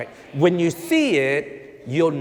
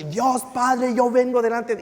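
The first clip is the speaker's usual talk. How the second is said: raised, higher praying voice; mild mock shouting; 5 semitones higher than usual. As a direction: imitate a man praying aloud in public. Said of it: "A mi voz alto, gritando".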